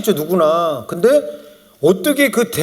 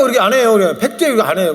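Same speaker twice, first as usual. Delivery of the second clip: ordinary delivery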